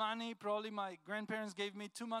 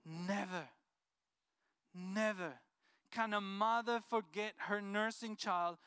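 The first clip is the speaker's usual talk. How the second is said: scripture reading; 3 dB louder than usual. Acted. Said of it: "the Lord's response was".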